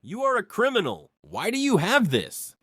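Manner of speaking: mock terrified shouting, pitch well up; terrified yell. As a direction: yell in genuine terror. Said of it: "He yells".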